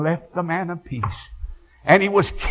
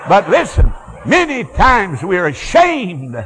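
louder, laughing, slow and drawn out; laughing shout; 4 semitones higher, 5 dB louder, slower than usual. Real, not acted. Preacher to the congregation, laughing and shouting. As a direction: laugh it out and then drive it home.

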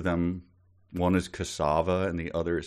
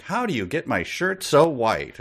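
mock-amazed, higher-pitched question; commercial customer; 5 semitones higher, 4 dB louder than usual. Woman customer asks the launderer, mock amazed. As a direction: ask it like an old advert housewife.

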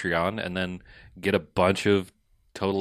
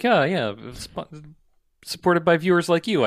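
bright higher announcer read; PBS announcer voice; 8 semitones higher, slower than usual. Retold or imitated. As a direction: voice it like a pledge drive host. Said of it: "And they'd be like".

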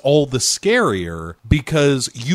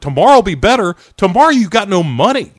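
higher, louder disbelieving echo; mock incredulity; 6 semitones higher, 5 dB louder, much faster than usual. Viewer answers mom about money, incredulous. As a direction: throw the reassurance back, scandalized. Mocking the mom's reassurance back.

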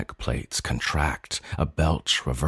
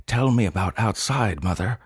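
plead; 4 semitones higher than usual. Acted. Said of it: "I plead".

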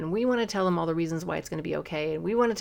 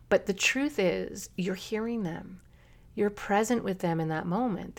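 usual speaking voice

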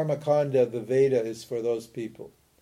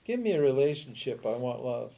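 mock begging. Teacher imitating someone begging God for love, lightly pleading. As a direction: beg a little, then let the voice drop away. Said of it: "So you beg God".

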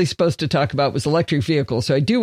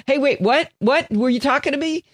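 higher, confused smart speaker voice; Alexa butting in; 8 semitones higher than usual. Retold or imitated. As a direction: mimic Alexa jolting awake, puzzled. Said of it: "Alexa upstairs will go".

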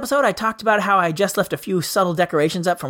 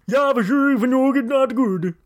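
put-on terrible German accent; 3 semitones higher than usual. Character conceding the criticism, terrible German accent. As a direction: answer in a badly faked German accent. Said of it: "that is terrible German accent".

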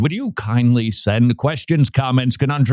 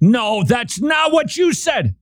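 high, slow playful objection; 9 semitones higher, slower than usual. Real, not acted. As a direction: call him out, laughing. Teasing protest.

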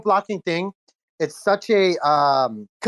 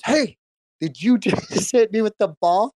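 put-on higher, slower challenge from an offended kid; mock confrontation; 5 semitones higher, slower than usual. Kid confronting the boy who threw the ball, mock challenge. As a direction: imitate a kid demanding an answer.

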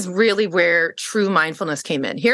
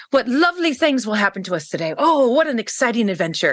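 imitated optimist, delighted by the adventure; upbeat positive man; 4 semitones higher than usual. Bumped passenger marvelling at the day, upbeat positive imitation. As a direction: imitate a relentlessly positive fellow traveler. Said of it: "he was just so positive".

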